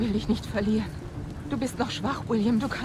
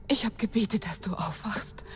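whispering; 7 semitones lower, 7 dB quieter than usual. Acted. Praying at bedside, whispering.

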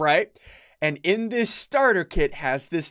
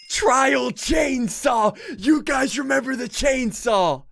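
drawn-out, thrilled call of the weapon's name; excited shout; 3 semitones higher, slower than usual. Real, not acted. Gamer spotting the chainsaw, shouting slow and excited. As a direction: hype it up like you just found the best toy.

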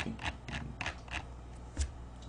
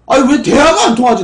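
loud, raised-pitch complaint; exasperated outburst; 8 semitones higher, 9 dB louder than usual. Real, not acted. Streamer venting that chat won't listen, exasperated outburst. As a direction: burst out in frustration at not being understood. Still ranting that nobody listens.

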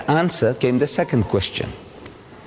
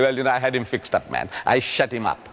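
mock boast; 4 semitones lower, 3 dB quieter than usual. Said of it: "around boasting".

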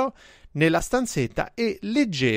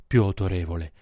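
much lower, deep chest voice; 8 semitones lower than usual. Shown as a demonstration. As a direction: sink it down to sound authoritative. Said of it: "quando fai la voce bassa come sembri più".

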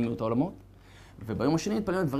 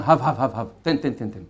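puppy begging; 5 semitones lower than usual. Retold or imitated. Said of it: "כמו כלבלב, שאומר".

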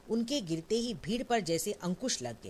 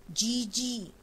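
scream; 6 semitones higher, much slower than usual. Acted. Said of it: "चीख पड़ती है".

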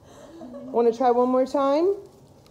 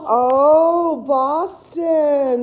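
loud, delighted cry to the dog; excited coo; 5 dB louder, much slower than usual. Real, not acted. Owner cries out with delight at her dog, excited. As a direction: gush over the dog's reaction.

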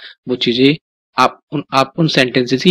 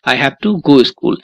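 slow drill. Shown as a demonstration. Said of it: "बोल रहे हो ना".

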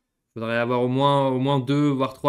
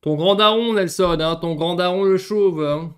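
teasing; 5 semitones higher, 7 dB louder than usual. Real, not acted. Playful teasing praise.

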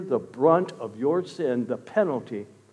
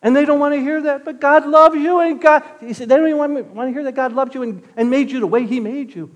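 higher-pitched, insistent sermon delivery; impassioned preaching; 8 semitones higher, 7 dB louder than usual. Real, not acted. Preacher urging people to accept how God made them, impassioned. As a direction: press the point home like a fired-up preacher.

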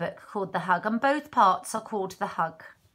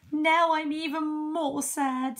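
sad; 7 semitones higher, slower than usual. Acted. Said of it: "said Hedgehog".

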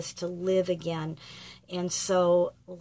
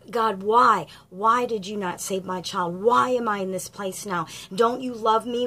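louder and pleading, voice lifted on the questions; grieving parent; 3 semitones higher, 4 dB louder than usual. Acted. Bereaved parent demanding answers from God, pleading and louder. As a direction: cry out the why as a hurt parent.

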